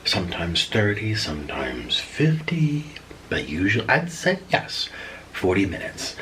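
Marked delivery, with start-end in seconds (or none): 1.1-6.2 whispering. Real, not acted. Whispered aside while eating.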